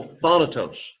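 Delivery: "thanatos" stressed on "tha"; first-syllable stress. Shown as a demonstration. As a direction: hit the first syllable of "thanatos" and let the rest fall. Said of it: "emphasis is upon that first syllable".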